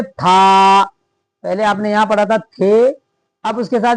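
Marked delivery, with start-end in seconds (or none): 0.0-0.8 था said firmly with aspirated t and long a; teacher giving था, louder; emphatic था. Shown as a demonstration. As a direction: land था as the answer. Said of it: "तो अब क्या पढ़ेंगे?".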